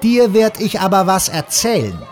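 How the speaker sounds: The speaker's mock threat.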